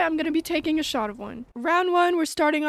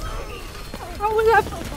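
drawn out slowly, each word stretched; slow disbelief; 7 semitones higher, much slower than usual. Real, not acted. Repeats the protest, slowly.

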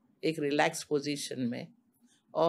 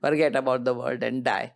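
slow guiding; 3 semitones lower, 4 dB louder, much slower than usual. Shown as a demonstration. Explaining shavasana slowly.

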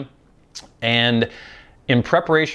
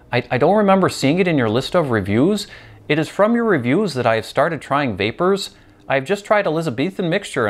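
put-on a light Canadian accent, a touch higher; 6 semitones higher than usual. Pipe vlogger reading a viewer's question in Canadian accent. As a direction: read the fan's letter in a hammed-up Canadian accent. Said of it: "that Canadian accent that I did for you there".

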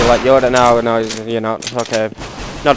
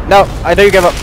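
exasperated; 5 semitones higher, 4 dB louder, much faster than usual. Real, not acted. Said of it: "I don't give up".

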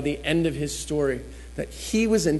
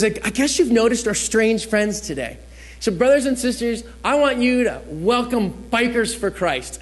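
imitated pastor's welcome; 5 semitones higher than usual. Voices pastor addressing the congregation.

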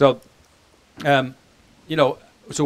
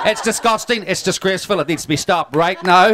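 mock outrage; 7 semitones higher, 3 dB louder than usual. Real, not acted. Mock outrage over light beer.

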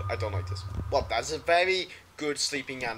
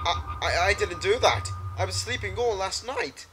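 frantic denial; 5 semitones higher than usual. Acted.

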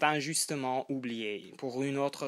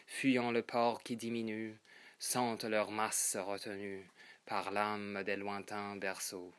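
réciter sobrement, en détachant chaque vers; récitation de poème; 2 semitones lower than usual. Acted. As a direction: lecture posée de poème, vers par vers. (récitation poétique posée)

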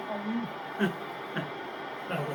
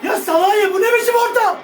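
angry shout; 4 semitones higher than usual. Real, not acted. Yelling at player's bad cross.

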